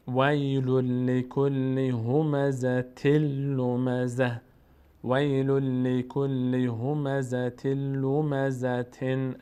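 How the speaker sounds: slow, steady chant with long held consonants; Quran recitation. Shown as a demonstration. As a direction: recite the verse in measured tajweed. Recites the verse. (تلاوت شمرده و کشیده با تجوید)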